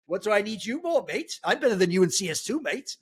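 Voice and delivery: lightly put-on Danish accent, cocky; a rough attempt at a Danish accent, teasing. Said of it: "the closest I can do to a Danish accent".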